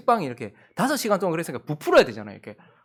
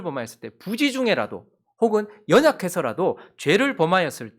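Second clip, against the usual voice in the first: emphatic preaching; 4 semitones higher, 5 dB louder than usual. Acted. Preacher urges the congregation to confess, louder. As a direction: drive the point home to the congregation.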